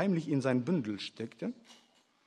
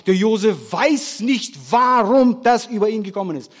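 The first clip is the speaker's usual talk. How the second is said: loud, higher, driving sermon voice; forceful preaching; 6 semitones higher, 7 dB louder than usual. Acted. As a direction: hammer the story home to the congregation. Preaches Josef story with force. (kraftvoll predigend, laut)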